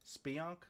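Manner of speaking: "Speonk" tried as SPEE-onk, rising; testing "Speonk" with a questioning rise; trying a pronunciation. Real, not acted. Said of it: "how do you say that?".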